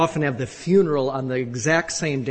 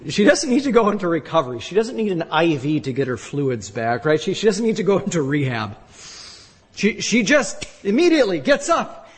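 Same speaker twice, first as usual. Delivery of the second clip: excited preaching; 2 semitones higher than usual. Real, not acted.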